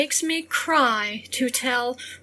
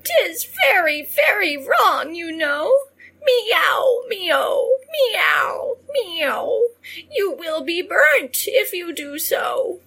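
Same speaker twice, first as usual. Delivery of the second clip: scolding cats; 8 semitones higher than usual. A narrator's reading. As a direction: scold her sharply as a cat. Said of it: "stretched their claws and raised their paws".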